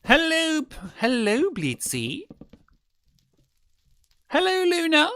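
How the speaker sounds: very high, loud sing-song hello; cartoon squeak calling a pet; high squeaky greeting. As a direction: call out in a tiny squeaky voice.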